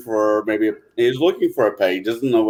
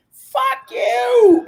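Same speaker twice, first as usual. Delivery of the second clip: parakeet shout. Acted. Parakeet yells at couple.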